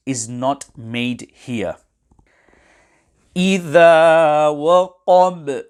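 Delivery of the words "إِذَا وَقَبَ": إِذَا وَقَبَ chanted loudly, with a short echoing release on the last b; qalqalah on ba. Shown as a demonstration. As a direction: draw out إِذَا, stop on وَقَبَ with a bounced b. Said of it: "Qalqalah will be carried out".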